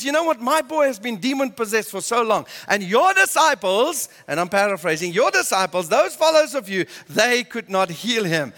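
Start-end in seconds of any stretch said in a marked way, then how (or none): 0.0-4.1 mildly acted upset father, pitched up. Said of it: "he is so upset". 5.1-8.5 a touch of an upset father's complaint. Retold or imitated. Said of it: "he is so upset".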